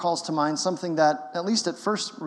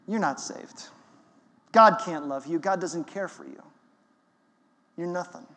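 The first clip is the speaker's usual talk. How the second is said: enemy's voice. Retold or imitated. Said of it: "This is how the enemy sounds".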